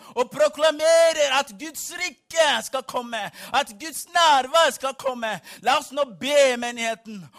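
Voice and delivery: very loud, rousing prayer call; rally the room at full shout; full-force preaching. Acted. Preacher rallying congregation to pray for Norway, shouted preaching.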